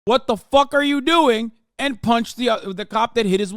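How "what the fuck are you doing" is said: imitating angry husband. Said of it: "the husband went".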